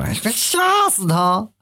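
high, slow mock voice of a henpecked husband; groom complaining. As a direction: drag it out like a put-upon groom. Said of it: "然后那男的说". (高声慢拖模仿新郎诉苦)

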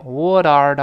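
"what are" with the t softened to a light d; weakened t. Shown as a demonstration. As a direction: link "what are", barely tapping the t. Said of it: "轻轻地弱化成".

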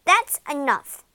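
loud, firm cut-off; stern king. A narrator's reading. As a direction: put a stop to the whining. King cuts off daughter's complaint.

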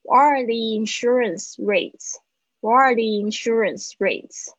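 "the insurance" said as "thee-insurance"; linked model of "the insurance rates"; "thee" before vowel. Shown as a demonstration. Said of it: "因为它会比较好念".

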